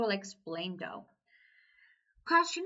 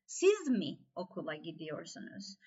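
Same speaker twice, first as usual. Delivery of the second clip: "Siz" pitched up, the rest falling away low; stress on Siz; 5 semitones lower than usual. Shown as a demonstration. Teacher demonstrating the third sentence, stress on Siz. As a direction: hit "Siz", then let the rest drop. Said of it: "Siz vurgulu".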